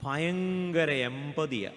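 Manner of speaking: ഭയങ്കര എമ്പതിയാ dragged out very slowly, mock praise; dry sarcastic drawl on ഭയങ്കര; ironic remark. Shown as a demonstration. Priest mocking people who praise God at a tragedy, slow and ironic. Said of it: "ഇത് കേട്ടോ എന്തുവാന്ന്?".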